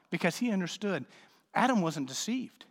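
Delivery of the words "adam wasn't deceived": ordinary delivery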